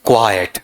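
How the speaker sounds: "क्वाइट" as two syllables, kwa-yet, falling; correct pronunciation. Shown as a demonstration. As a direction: model "क्वाइट" with a clear second vowel, "क्वा-यट". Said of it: "बड़ा ही interesting उच्चारण है". ("क्वाइट" का सही उच्चारण, "क्वा-यट")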